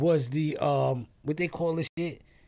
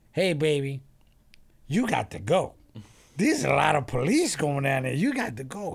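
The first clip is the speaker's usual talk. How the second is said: urgent lady; 2 semitones higher, 5 dB louder than usual. Retold or imitated. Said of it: "Then the lady goes".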